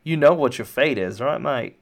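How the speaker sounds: mocking henchman voice; taunting guard. Guard taunts captive wrapped up in the tank, jeering. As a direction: needle the captive as a cocky guard.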